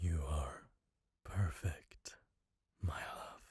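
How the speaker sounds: soft, hushed, adoring, devoted ASMR murmur. Late at night in her chambers, an assassin speaks to his queen; adoring yandere assassin asmr. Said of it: "In this m4a boyfriend yandere assassin ASMR: There's an assassin in your chambers late at night. / In this m4a boyfriend yandere assassin ASMR: There's an assassin in your chambers late at night. / As".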